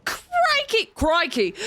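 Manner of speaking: high, sudden crikey of alarm; startled exclamation. Acted. Streamer panicking at the flying plan, startled yelp. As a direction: yelp it like you just got spooked.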